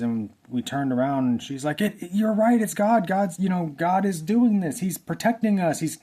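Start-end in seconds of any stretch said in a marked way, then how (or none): 1.8-6.0 high, louder, stammering amazement; acted excitement. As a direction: imitate someone excitedly realizing it's all true. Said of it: "she was so excited".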